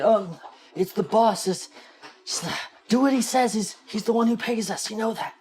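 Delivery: high, loud eager guard; a dim guard urging obedience; dopey guard voice. Acted.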